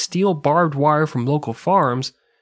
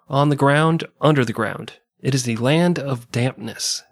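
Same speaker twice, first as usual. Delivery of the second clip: reading a quote. Shown as a demonstration.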